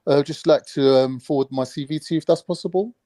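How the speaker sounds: polite job-call phone voice; a touch of posh phone manner. Acted. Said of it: "do your telephone voice for us".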